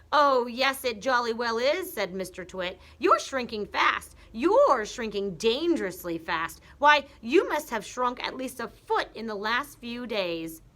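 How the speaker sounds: husband frightening his wife; gleeful Mr Twit. Acted. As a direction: pile it on. Mr Twit taunting.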